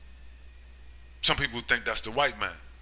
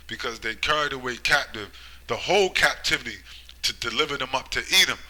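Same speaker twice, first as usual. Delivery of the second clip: scripture reading. Acted. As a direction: proclaim the verse like a prophet. Rereads Amos aloud.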